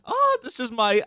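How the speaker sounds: high, hammed-up British accent. Shown as a demonstration. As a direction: show off a bad British accent. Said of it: "my British accent".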